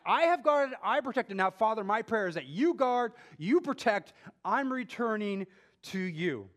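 a hint of Jesus praying; voicing Jesus. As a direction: speak as Jesus entrusting them to the Father. Voices Jesus praying to Father.

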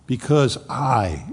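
slow "Because I" with weight on "I"; stress on I. Shown as a demonstration. Preacher contrasting Jesus with others, slow emphatic stress. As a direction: set "I" against all others. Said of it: "in counter distinction to all others".

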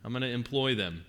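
ordinary delivery

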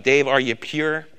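slow, gentle self-check; self-questioning. Retold or imitated. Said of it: "I say".

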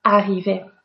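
Arriver with one light R, no extra length; double R as one. Shown as a demonstration. Teacher repeating to show double R sounds the same. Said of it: "It's all the same".

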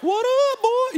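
mock gangster greeting. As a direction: ham up a street greeting he can't pull off. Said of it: "I can't be walking in like".

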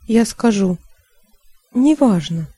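ordinary delivery

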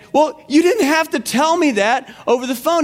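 high, indignant protest in imitation; mock upset wife. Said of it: "just loses it".

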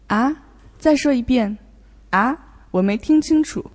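acted not catching what was said; pardon-me questioning. Student playfully asking teacher to repeat, questioning. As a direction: ask for a repeat, puzzled. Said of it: "it works like, "Pardon".

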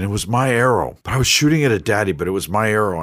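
lightly voiced boy owning up; child voice. Son confessing to sister.

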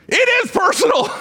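high, loud protest; indignant outburst. Retold or imitated. Preacher blurting his protest at the coach's firing, shouted high. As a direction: cry it out in disbelief.

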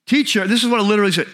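acted-out annoyed shout for attention; mad. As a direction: imitate upset followers calling their teacher. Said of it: "you can hear how mad they are".

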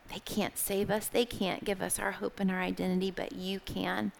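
hushed, intimate prayer voice; soft prayer. Acted. Preacher praying over her friends, hushed and soft. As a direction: pray gently over the listeners.

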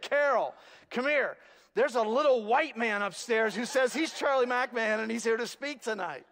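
a mock whisper that carries two city blocks; loud stage whisper. Church lady tells Carol about the guest speaker, loud stage whisper. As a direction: hiss it loud enough for the whole basement. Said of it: "like in a whisper that could be heard for two city blocks".

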